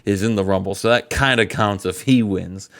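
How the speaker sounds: a hint of Booker T hyping up his crew; mock Booker T rallying the Gentlemen's Club. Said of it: "I'm Booker T saying this".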